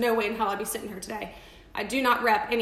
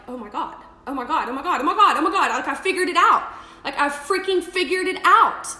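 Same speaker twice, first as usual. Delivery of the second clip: near-shouted, much higher, laughing through the rush; ecstatic realization; 4 semitones higher, 8 dB louder than usual. Retold or imitated. Retelling her own breakthrough moment, shouting with excitement. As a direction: burst out with it like a sudden breakthrough. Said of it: "it was like".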